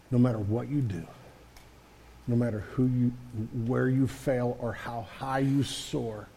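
soft, tender, steady promise; tender reassurance. Shown as a demonstration. Parent promising unconditional love to a child, soft and tender. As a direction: say it like a vow to your child. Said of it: "you need to look at them and say".

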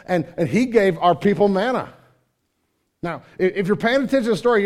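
loud, high, driving sermon voice; booming pulpit delivery, rising intensity; full-force preaching. Acted. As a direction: preach it hard to the whole room. Preaching at full force, reading John.

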